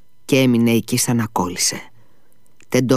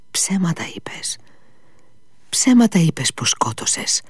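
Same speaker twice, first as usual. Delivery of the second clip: howled; 7 semitones higher than usual. Acted. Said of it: "ούρλιαξε ο Ιβάν".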